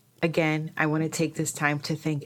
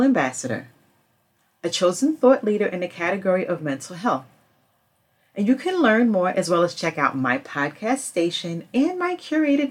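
louder promotional read; sponsor ad read; 3 semitones higher, 7 dB louder than usual. Acted. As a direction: pitch the service like a podcast host.

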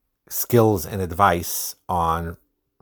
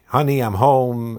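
cheerful greeting; 4 semitones higher, 4 dB louder than usual. Retold or imitated. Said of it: "with a smile".

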